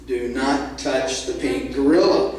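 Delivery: deliberate, low warning with spaced words; stern reminder. Acted. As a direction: drive the rule home word by word. Owner repeats his rule.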